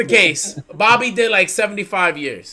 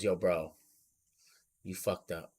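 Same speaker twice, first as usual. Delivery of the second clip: blunt verdict; 12 semitones lower, 15 dB quieter than usual. Retold or imitated. Friend's blunt verdict quoted.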